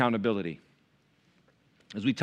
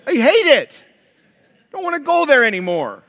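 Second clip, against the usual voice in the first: whiny complaint; 13 semitones higher, 10 dB louder than usual. Retold or imitated. Preacher telling his wife he hates the dentist, hammed-up whine. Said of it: "I'm like".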